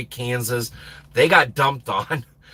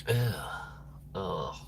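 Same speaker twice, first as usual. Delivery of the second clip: ordinary talk, nothing marked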